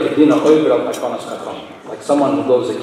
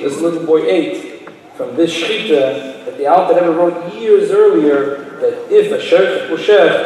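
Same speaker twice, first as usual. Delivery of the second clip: building excitement; 4 semitones higher, 5 dB louder than usual. Real, not acted. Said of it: "climax of the story".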